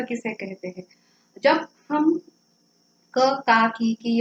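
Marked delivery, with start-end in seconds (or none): 3.2-4.2 clipped क then a drawn-out का, की; short and long vowel demo. Shown as a demonstration. Teacher showing students how short and long vowels sound. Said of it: "यह उसका उच्चारण जब करते हैं तो क".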